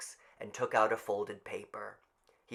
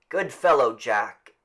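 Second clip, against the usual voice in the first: crowd voice; 11 dB louder than usual. Acted. Crowd voices cheer boy.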